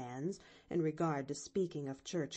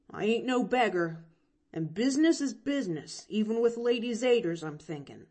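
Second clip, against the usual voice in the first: a hint of a country boy, proud; lightly voiced boy insisting on his worth; boy speaking up, a bit quicker; proud orphan boy Jimmy; 3 semitones higher, 4 dB louder than usual. A narrator's reading.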